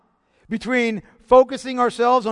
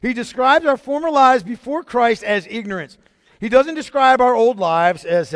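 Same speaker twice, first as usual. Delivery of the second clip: louder, higher insistence; louder preaching emphasis; emphatic restatement; 4 semitones higher, 7 dB louder than usual. Real, not acted. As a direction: drive the point home.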